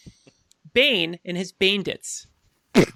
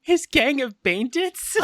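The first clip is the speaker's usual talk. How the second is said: amused disbelief; 6 semitones higher, 4 dB louder, slower than usual. Real, not acted. Repeats the phrase, amused.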